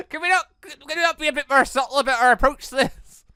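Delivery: high, loud laughing complaint; amused exasperation at the blunt question; laughing protest. Real, not acted. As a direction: laugh it off in disbelief. Mock complaint at tactless character.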